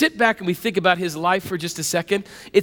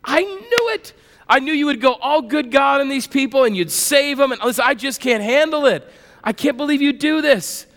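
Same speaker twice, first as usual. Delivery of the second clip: higher, whiny complaint to God; exasperated Jonah; 5 semitones higher than usual. Retold or imitated. Jonah complaining to God that he saved them, exasperated. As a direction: sulk at God like a spoiled prophet. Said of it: "here's what Jonah says".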